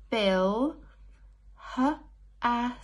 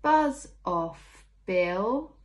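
cheeky buzz off; 5 dB louder, much slower than usual. Acted. Child in story shooing away annoying Bill. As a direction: tell the pest to go away.

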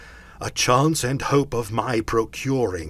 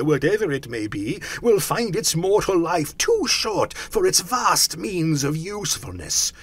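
loud, raised ghostly lament; anguished cry; 6 semitones higher, 7 dB louder than usual. A narrator's reading. Phantom regretting its misused life, crying out in anguish. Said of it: "cried the phantom".

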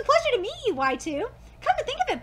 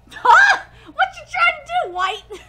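higher and louder, laughing; laughing mock question; 9 semitones higher, 11 dB louder, slower than usual. Real, not acted. Vlogger teasing White about her matchmaking, laughing. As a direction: tease her through laughter.

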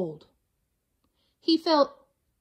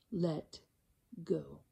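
much softer, trailing away; fading; 7 semitones lower, 12 dB quieter than usual. A narrator's reading. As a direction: let the words fade out. Narrator fades out.

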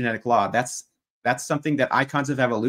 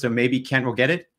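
slow, deliberate, word by word; measured and emphatic, condescendingly simple; slow, pointed. Real, not acted. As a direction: spell it out slowly with pauses, as if to a slow learner. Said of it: "say this slowly and use small words".

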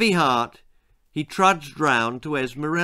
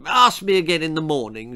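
cagey; faster than usual. Acted. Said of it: "she replied cagily".

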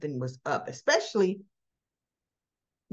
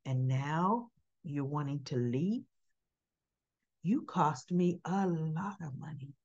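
menacing Selena; 4 semitones lower, 5 dB quieter than usual. Retold or imitated. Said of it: "She goes".

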